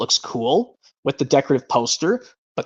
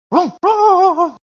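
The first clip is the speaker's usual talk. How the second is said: very high, loud yappy dog barks voiced as words; barking dog impression; 6 dB louder than usual. Dog barking at the commotion, high yappy bark. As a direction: yip out the barks like an excited puppy. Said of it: "how about this one where it goes".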